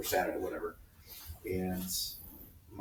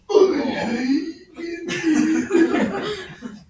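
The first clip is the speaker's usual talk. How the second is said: mock wail; 8 dB louder than usual. Mimics kids wailing after swat.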